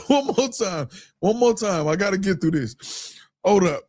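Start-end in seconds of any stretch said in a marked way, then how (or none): 0.1-1.9 laughing. Real, not acted. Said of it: "I'm literally crying".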